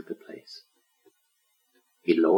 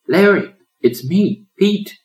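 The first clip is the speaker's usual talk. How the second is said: high, loud excited call; exclaiming greeting; 12 semitones higher, 7 dB louder, slower than usual. A narrator's reading. Pelican calling into cave to lion, exclaiming. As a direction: call out to an old friend. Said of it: "the white bird exclaimed in greeting".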